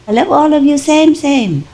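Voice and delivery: high doting voice for the dogs; affectionate. Retold or imitated. Owner addressing all the dog people, affectionate. Telling dogs love at random.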